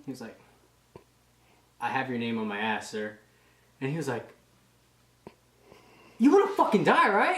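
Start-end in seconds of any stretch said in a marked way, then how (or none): 1.8-3.2 low, softer deadpan reply; deadpan recruit. Retold or imitated. Recruit repeating himself to an angry drill instructor, deadpan. 6.2-7.4 raised, loud mock threat; angry drill instructor. Drill instructor threatening a recruit over his answer, angry.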